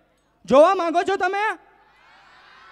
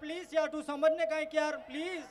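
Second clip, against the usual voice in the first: soft fading plea; pleading boyfriend; 7 dB quieter than usual. Acted. Late boyfriend softly pleading with angry girlfriend. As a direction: beg her softly to understand. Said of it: "boyfriend late પહોંચે છે".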